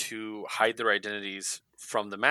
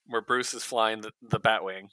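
ordinary talk

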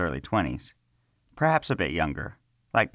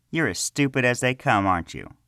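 higher, mocking jab at the start; taunting; 5 semitones higher than usual. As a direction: sneer at him like a cocky boy. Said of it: "Pilash taunted".

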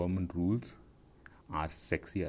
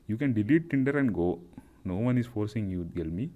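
scolding; 2 semitones higher, 5 dB louder than usual. Real, not acted. Scolding the profile owner.

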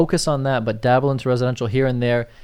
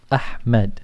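Arabic accent. Shown as a demonstration. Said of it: "I say it with the Arabic accent".

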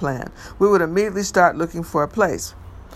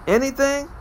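surprised; 8 semitones higher than usual. Acted. Disbelieving question.

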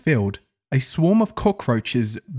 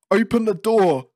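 high-pitched, urgent call; trapped and calling for help; urgent demand; 8 semitones higher than usual. Acted. Trapped man demands to be let out.

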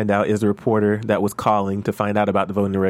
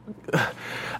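shaky sigh; 3 semitones higher, 10 dB quieter than usual. Real, not acted. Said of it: "I was tearing up".

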